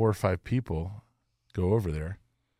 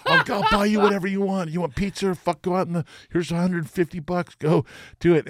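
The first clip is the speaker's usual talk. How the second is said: laughing placation; 10 semitones higher, 6 dB louder than usual. Retold or imitated.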